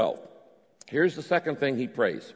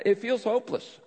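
prayer; 10 semitones higher than usual. Shown as a demonstration. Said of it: "You tell God".

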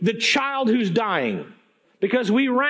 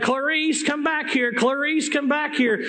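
put-on raised, higher mother's call after a runaway kid; calling her child back; 6 semitones higher than usual. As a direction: call out sharply, pitched up like a fed-up mom. Mom calling after her daughter.

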